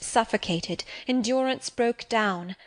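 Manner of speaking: ordinary delivery, nothing marked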